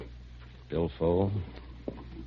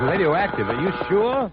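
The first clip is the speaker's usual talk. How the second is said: much higher, frightened question; alarmed disbelief; 13 semitones higher, 4 dB louder than usual. Acted. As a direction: fear breaking into the voice. Told he is contaminated.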